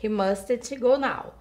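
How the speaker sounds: "He mustn't go now" spoken slowly; slow model sentence. Shown as a demonstration. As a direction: read it slowly so students can copy.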